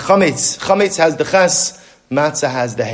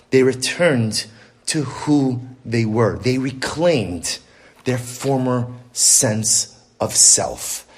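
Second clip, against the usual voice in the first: soft, slow; 4 semitones lower, 3 dB quieter, much slower than usual. Real, not acted. Preacher slows, softens for the climax.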